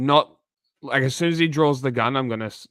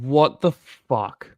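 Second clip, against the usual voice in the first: shocked disbelief; 2 semitones higher, much slower than usual. Real, not acted. Shocked reacting to shooting video.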